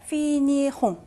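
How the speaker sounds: finirons drawn out in three syllables; pronunciation model. Shown as a demonstration. Teacher shows ending attached 그대로, slow pronunciation model. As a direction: sound out finirons slowly, "fi-ni-rons". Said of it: "그대로 붙이시고 발음도".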